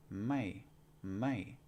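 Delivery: Thai "Mai" said with a falling tone. Shown as a demonstration. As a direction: drop the pitch through "mai". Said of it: "it's gonna be a falling tone".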